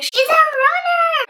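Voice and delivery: high, drawn-out mock announcement; slow, high-pitched teasing call. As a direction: stretch it out high on a held note. Mocking catchphrase shared with friend.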